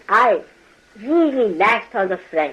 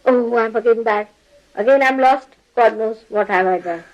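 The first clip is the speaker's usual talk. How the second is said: mock guilty lament; 2 semitones higher than usual. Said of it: "Somebody gets a little heat".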